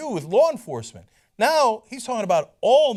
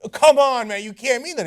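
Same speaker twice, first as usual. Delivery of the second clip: disbelief; 6 semitones higher, 6 dB louder than usual. Real, not acted. Host pleading in disbelief.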